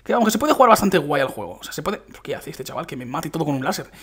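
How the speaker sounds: ordinary delivery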